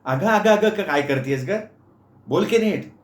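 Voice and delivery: high sharp impatient snap; snapping aunt. Acted. Aunt snaps at stammering Meenu, high and sharp. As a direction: bark at her to speak properly. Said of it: "मामी खेकसल्या".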